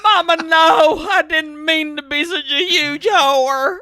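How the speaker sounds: hammed-up tearful daughter's protest; mock wailing plea. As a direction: wail it in mock distress, laughing. Mock-acts Judy's plea to Mama.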